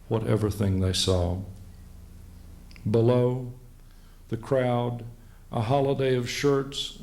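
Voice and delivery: slow, deliberate verse recital; measured poetry reading with spaced-out phrases; poem reading. Acted. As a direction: read it as a poem, pausing between images. Reads his poem aloud.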